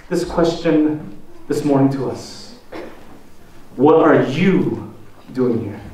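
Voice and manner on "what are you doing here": gentle, not angry. A narrator's reading. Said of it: "not in an angry way".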